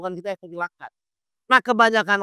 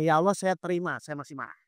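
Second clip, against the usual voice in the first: subdued prayer, sinking softer and lower; humble prayer; 3 semitones lower, 4 dB quieter than usual. Acted. Ustadz models a mother's prayer to Allah, humble and hushed. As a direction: admit it to God, voice dropping away. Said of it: "Ibu langsung ngomong".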